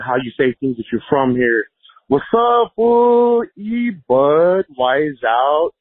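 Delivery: ordinary delivery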